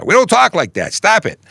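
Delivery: high mock-indignant New York voice; exaggerated New York complaint; protesting New York friends. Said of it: "trouble with my New York friends".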